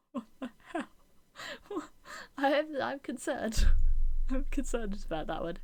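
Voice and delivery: helpless laughter breaking through the words; laughing in disbelief. Real, not acted. Bursts out laughing at dish name.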